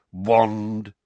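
grunted. Acted. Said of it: "grunted the security wizard".

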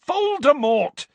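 loud, high, drawn-out yell; exasperated outburst at high pitch; furious. A narrator's reading. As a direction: shout the name in fury. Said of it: "said Harry furiously".

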